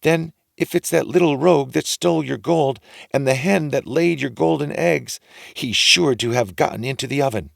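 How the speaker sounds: high fussy wife voice; ogre's wife. A narrator's reading. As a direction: chatter on as the giant's wife.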